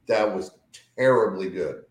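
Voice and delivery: "terribly" given the weight in "terribly good"; stress on TERRIBLY. Real, not acted. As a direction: lean on the word "terribly". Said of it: "Emphasis on terrible".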